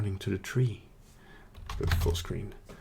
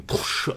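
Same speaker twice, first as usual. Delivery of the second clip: imitated thunderclap.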